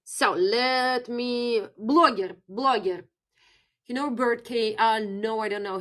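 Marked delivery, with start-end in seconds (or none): 1.8-3.0 "blogger" modelled the Russian way; teacher's demo of "blogger" with a Russian accent; Russian pronunciation. Shown as a demonstration. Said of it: "Blogger is blogger".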